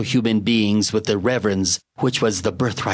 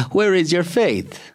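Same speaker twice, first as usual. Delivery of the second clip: ghostly voice; 9 semitones higher than usual. Acted. Dead man's teasing voice.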